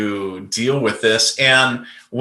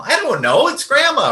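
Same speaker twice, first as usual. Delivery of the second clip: higher, insistent answer to his own doubt; mock inner argument, the answering voice pitched up; other half arguing back; 13 semitones higher than usual. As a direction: pitch up and argue with yourself. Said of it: "loud arguing with myself".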